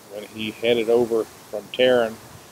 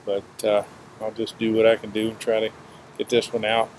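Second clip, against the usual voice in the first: breathless, pausing for air; winded, labored talking; short of breath. Real, not acted. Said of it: "I'm a little short of breath today".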